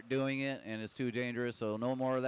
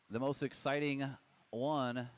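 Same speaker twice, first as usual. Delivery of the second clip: deadpan sarcasm with a pause before the last word; mock the hype, underplayed and halting; sarcastic. Real, not acted. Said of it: "you could hear the sarcasm in my voice".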